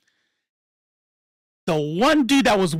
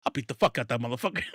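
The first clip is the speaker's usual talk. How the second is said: laughing quote; 7 semitones lower, 8 dB quieter, much faster than usual. Retold or imitated. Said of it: "people who look at me and be like".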